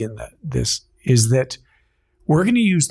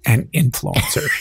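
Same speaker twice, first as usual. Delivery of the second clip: air quotes. Acted. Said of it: "hear the air quotes".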